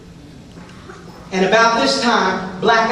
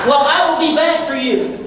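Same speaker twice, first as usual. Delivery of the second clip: laughing; 4 semitones higher than usual. Retold or imitated. Laughing retort to mother.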